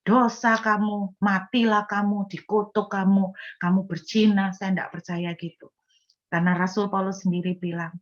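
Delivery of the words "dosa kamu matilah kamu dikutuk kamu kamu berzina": mock accusing pronouncements, each one punched; condemning prophet. False prophet turns up to condemn a sinner, harsh and accusing. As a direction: pronounce judgment curse by curse. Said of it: "saya nggak percaya kalau Nabi itu datang-datang".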